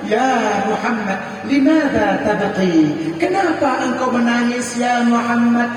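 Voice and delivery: lightly voiced wife, gently asking why; Khadijah asking tenderly. Wife asking her weeping husband why he cries.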